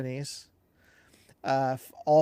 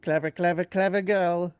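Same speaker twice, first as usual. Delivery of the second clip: Jurassic Park quote; 3 semitones higher, 4 dB louder than usual. Retold or imitated. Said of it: "That was Jurassic Park right there".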